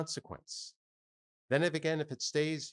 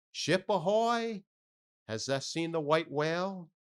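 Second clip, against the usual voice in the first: hailing cry; 6 semitones higher, 4 dB louder than usual. Acted. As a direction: bellow across the water to another ship. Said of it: "So cried Ahab".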